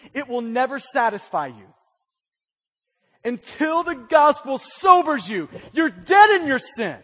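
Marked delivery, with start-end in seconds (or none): 3.2-7.0 louder, punched repeat of the phrase; preacher raising his voice on the repeat; shouted sermon line. Real, not acted. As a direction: shout it the second time to drive it in. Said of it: "Listen, until the gospel sobers you".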